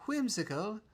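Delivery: slow, put-on British accent on mysterious; a mock posh British accent for the video line. Host quoting his own video in a mock British accent. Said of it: "when I put on a British accent".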